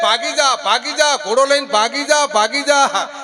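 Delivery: high, loud repeated yells; urgent shouting. Acted. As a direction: holler a frantic warning at the TV. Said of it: "એમાં એની બૂમ પાડી કે". (ગભરાટભરી મોટી બૂમો)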